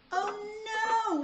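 high, loud weary groan of a fed-up father; a tired dad at the end of his rope; exasperated Mister Bear. A narrator's reading. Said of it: "said Mister Bear".

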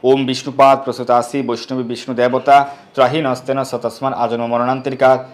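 steady Sanskrit chant on a level tone; mantra recitation. Acted. Teacher giving the bathing mantra, steady recitation. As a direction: recite it evenly as ritual prayer.

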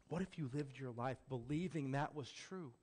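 ordinary delivery

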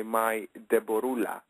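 a hint of a heavy Greek accent on Deborula; lightly put-on Greek accent, affectionate nickname. Singer shows how he greets his friend, light Greek accent. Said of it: "I put on my heavy Greek accent and I say".

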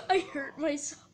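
high laugh through the words. Real, not acted. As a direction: laugh it off after a knock. Laughing after getting hurt.

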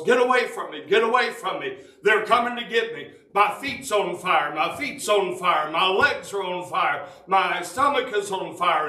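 high, panicked cries retold in a sermon; retold terrified screaming. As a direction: act out a dying man's terrified screams, pitched high. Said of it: "he's screaming at the top of his voice".

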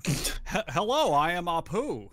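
put-on Apu's Indian accent. Friend answering with Apu's original voice, mock Indian accent. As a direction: lightly mimic the original cartoon voice. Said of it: "Apu's voice".

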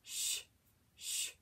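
"sh" as a short voiceless hush; soft isolated "sh", breath only, no vowel; letter sound. Shown as a demonstration. Teacher repeating S and H for the class, soft hushing sound. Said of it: "What sound do those make together?".

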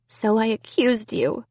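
sob. A narrator's reading. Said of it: "Sarah said with a sob".

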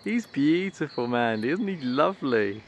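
high, loud, delighted gushing over the squirrel; thrilled squeal. Real, not acted. Watching the red squirrel shake its tail, excited high squeal. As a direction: squeal with real joy, stretching the last words slowly.

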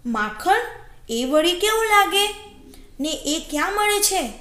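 puzzled wolf, pitch climbing; storybook wolf taken by surprise; astonished wolf. Acted. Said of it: "અચંબિત થઈને વરુએ કહ્યું".

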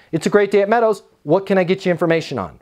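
upbeat greeting with a quick, businesslike question; smile through the phone. Shown as a demonstration. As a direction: greet a caller positively, then get down to business. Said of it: "like a smile through the phone".

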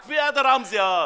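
angry yell. Acted. Boss yells at worker.

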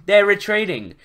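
high excited cry; screamed. A narrator's reading. Luke announces the enemy is fleeing, mildly screamed. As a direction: cry it out, short of a full scream. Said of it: "screamed Luke".

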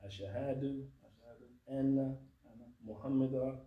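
slow, deliberate syllable by syllable; over enunciating. Shown as a demonstration. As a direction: say each word slowly for them to repeat. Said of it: "slowly for you to, uh, repeat after me".

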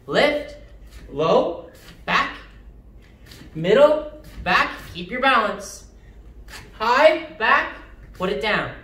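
sharp martial arts commands. Shown as a demonstration. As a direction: call out each kick like a coach.

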